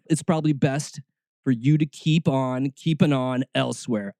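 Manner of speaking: normal talking voice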